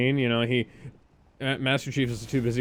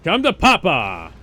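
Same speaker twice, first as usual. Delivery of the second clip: Master Chief voice; 2 semitones higher, 6 dB louder than usual. Pretend. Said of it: "Your regular voice".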